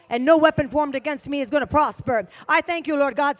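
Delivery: loud, forceful preacher commanding spirits; fiery preaching. Acted. Preacher rebuking spirits from the pulpit, forceful. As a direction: declare it with full force from the pulpit.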